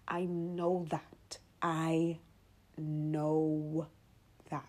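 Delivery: slow unvoiced whisper; intimate whisper. Real, not acted. Podcaster to her listeners, slow whispered confession. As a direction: breathe it like a secret truth.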